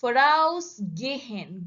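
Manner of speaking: "Vorausgehen" with AUS drawn out and punched; slow "Vorausgehen", weight on the prefix; stress on VORAUS. Shown as a demonstration. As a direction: lean slowly on the prefix "Voraus" before "gehen". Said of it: "on a prefix".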